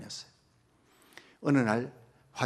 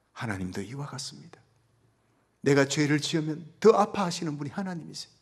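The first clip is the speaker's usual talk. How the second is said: ordinary talk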